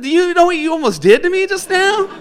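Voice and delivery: half-scolding while cracking up; laughing outrage. Retold or imitated. Drunk guy to the domino player after the scare, laughing outrage.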